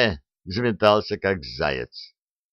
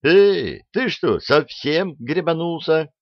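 shouting; 8 semitones higher, slower than usual. A narrator's reading. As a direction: bark it out in alarm. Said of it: "заорали Артемьевы".

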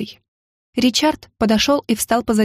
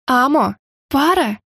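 bitter smirk; 3 semitones higher, slower than usual. A narrator's reading. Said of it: "горько усмехнулась я".

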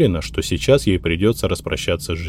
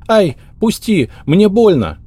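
put-on high, pained squeal of a frightened girl; high loud squeal, begging to be let go; 13 semitones higher, 7 dB louder, slower than usual. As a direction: yelp it out, hurting and scared. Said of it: "завизжала девица".

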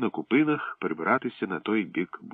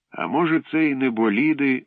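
eager wondering; 6 semitones higher, 6 dB louder than usual. Acted. Prі eager guess.

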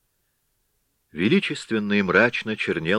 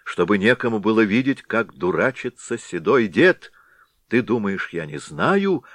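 scolding; 2 semitones higher, 3 dB louder than usual. Acted. Sister-in-law scolds the Head.

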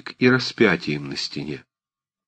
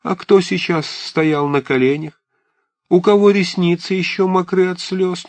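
mock her denial with each Ничего; scolding old aunt; 9 semitones higher than usual. A narrator's reading. Old aunt scolding Liza for hiding her tears.

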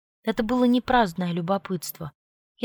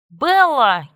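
loud, higher angry shout; angry call; 6 semitones higher, 10 dB louder than usual. A narrator's reading. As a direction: call her furiously. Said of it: "кипятился Чарли".

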